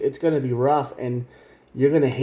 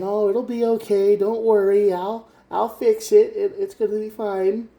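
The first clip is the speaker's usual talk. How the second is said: higher, sing-song reassurance in a mock voice; placating soothing; 8 semitones higher than usual. Reader mocks the viewer soothing an angry partner, high sing-song. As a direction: imitate someone nervously smoothing things over, pitched up.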